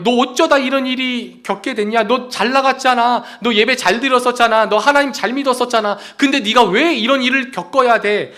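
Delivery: questioning friend. Retold or imitated. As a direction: press him like a baffled old friend. Friends question suffering Job.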